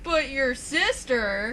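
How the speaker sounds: slow, teasing dramatic reveal; drawn-out taunt. Retold or imitated. Fan imitating wrestler turning apology into jab, drawn-out taunt. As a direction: stretch each word for a mock dramatic twist.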